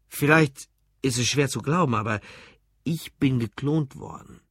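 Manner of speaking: lightly voiced tipsy man confiding; drunk storyteller. Drunk customer starts his story to the barman, tipsy. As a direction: confide it haltingly, a little tipsy.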